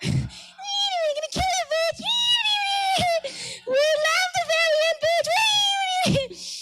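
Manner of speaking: high squeaky menacing germs, drawn out; shrill little germs gloating; evil germ voice. Retold or imitated. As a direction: play a tiny cartoon villain germ.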